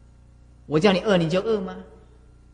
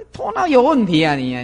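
a sharp scolding rebuke, a bit louder; scolding jab; 3 dB louder than usual. Acted. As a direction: scold 头脑有问题啊你啊 with stress on 脑. Scolding critics of the master.

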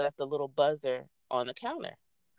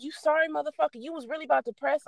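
mock exasperation; 11 semitones higher than usual. Venting at the officer.

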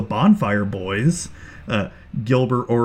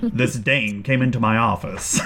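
noir detective. Pretend. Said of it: "It's a noir start".

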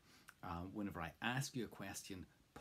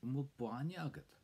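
model answer; 7 semitones higher, 3 dB louder than usual. Shown as a demonstration. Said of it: "Have you got milk?".

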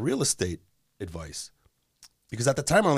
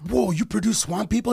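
higher-pitched, mildly awed imitation; starstruck fan; 8 semitones higher than usual. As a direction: imitate an impressed stranger. Acting awestruck airport fan.

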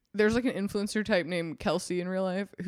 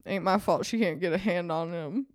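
lightly voiced gruff John. Brother complaining about his sister's boy, lightly gruff voice. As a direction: grumble it like a hard cowboy, mostly understated.

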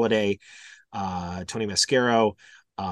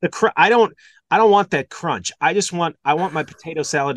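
louder, higher fussy objection; mock protest; 4 semitones higher, 5 dB louder than usual. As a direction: protest with hammed-up insistence. Mock outrage over crunchy celery.

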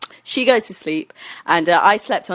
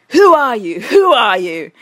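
louder, higher insistent questioning; retold demanding; 3 semitones higher, 6 dB louder than usual. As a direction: imitate a stranger demanding answers. Retold stranger demands identity.

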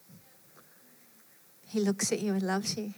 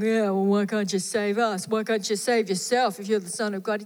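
mocking thief; 4 dB louder than usual. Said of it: "Just mocking him".

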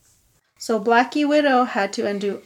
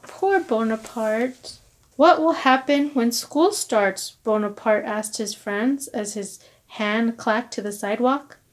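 put-on reading to children; 3 semitones lower than usual. A narrator's reading. Reading picture book aloud.

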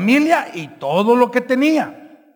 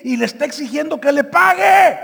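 preaching shout; 4 semitones higher, 3 dB louder than usual. Real, not acted. Preaching the demand.

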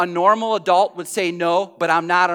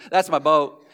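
lightly voiced Forrest Gump, a bit lower; Forrest Gump impression; 5 semitones lower than usual. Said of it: "that's my Forrest Gump impression".

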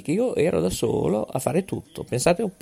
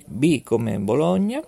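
spelling it out; 3 dB louder than usual. Shown as a demonstration. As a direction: spell out each letter with a city, clearly paced. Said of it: "vi faccio lo spelling".

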